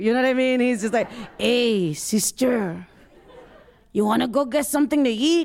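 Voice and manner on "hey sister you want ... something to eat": heavy, thick, stereotypical put-on Mexican accent. Imitating an oldest brother born in mexico: stereotypical mexican accent. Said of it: "he's got like a stereotypical accent".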